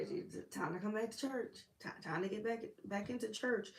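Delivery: soft, lilting invitation; gentle coaxing call. Acted. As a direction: coax them back softly. Coaxing people back to church.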